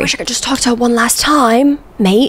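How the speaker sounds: lightly mocking Australian impression; bad Australian accent. YouTuber apologizing to Australians then retrying, mock Australian accent. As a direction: have a go at an Australian accent, ending on "mate". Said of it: "insult somebody with a different accent".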